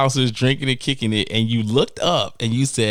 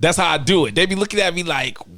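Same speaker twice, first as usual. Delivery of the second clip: ordinary talk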